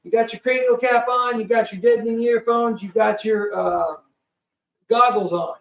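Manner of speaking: brisk pilot briefing. Retold or imitated. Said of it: "they go".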